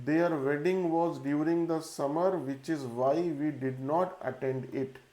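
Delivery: reading a test sentence slowly and evenly for a class; slow dictation reading. Shown as a demonstration. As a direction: dictate it word by word so students can follow.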